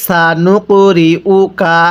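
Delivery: সানুকুরিউকা recited slowly with a thin, light স; thin sin. Shown as a demonstration. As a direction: keep the স in সানুকুরিউকা thin and drawn out. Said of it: "সিনটা চিকন করে উচ্চারণ করতে হবে".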